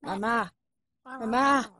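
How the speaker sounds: put-on insistent son, Russian accent; fake Russian accent. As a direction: argue with mama in Russian accent. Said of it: "fake Russian spy".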